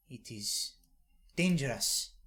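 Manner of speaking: sharp correction; scolding granny. Acted.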